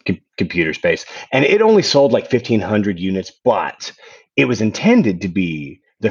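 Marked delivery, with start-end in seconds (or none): 0.0-1.0 flat and low title read; deadpan. Shown as a demonstration. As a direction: say it dry, no excitement. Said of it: "you have to say deadpan".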